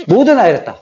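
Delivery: 모두 lengthened as the key word; stress on 모두. Shown as a demonstration. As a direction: lean firmly on 모두, then finish the phrase. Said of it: "이게 제일 중요해요". (모두를 길게 늘여 강조)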